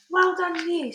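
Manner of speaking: BFG's fond reply; said kindly. A narrator's reading. BFG smiling down at Sophie, fond praise. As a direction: return the praise gently. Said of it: "said the B F G".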